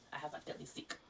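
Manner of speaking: hushed, unvoiced admission; whispered. Real, not acted. Sick woman warning viewers in a whisper. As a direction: drop to a whisper to stress it. Stressing how sick she is.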